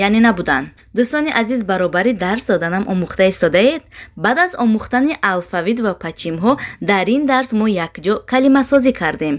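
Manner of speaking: ordinary talk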